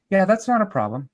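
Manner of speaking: calm, polite brush-off of the objection; polite and unbothered; calm, matter of fact. Shown as a demonstration. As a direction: say it easily, as no big deal. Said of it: "Calm, polite, matter of fact".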